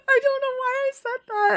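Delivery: high and laughing through the words; real giggle breaking into the line; laughing at herself. Real, not acted. Laughing at her own blunder.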